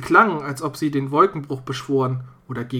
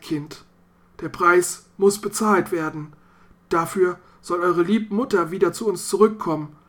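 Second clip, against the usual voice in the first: remorseful father; 3 semitones higher than usual. Acted. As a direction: confess the terrible bargain with guilt. Vater confesses the sacrifice. (Vater gesteht der Tochter das Opfer, leicht gespielt, reuevoll)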